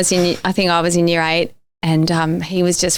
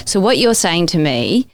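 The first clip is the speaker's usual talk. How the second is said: calm. Retold or imitated. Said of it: "very calmly".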